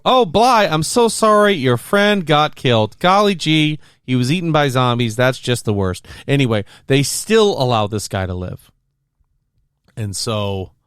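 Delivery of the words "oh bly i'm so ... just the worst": mock sympathy. Co-host acts out villain's apology for dead friend, mock sympathy. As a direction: gush with insincere pity, starting very high.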